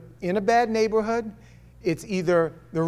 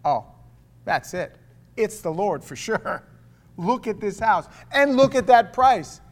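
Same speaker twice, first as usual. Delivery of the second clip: excited; 4 semitones higher, 5 dB louder than usual. Retold or imitated. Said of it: "you're like".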